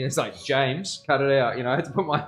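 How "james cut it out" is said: a hint of a stern dad scolding; lightly voiced firm father, cut it out; mock dad telling a kid off, a bit louder. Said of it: "had to put my dad voice on".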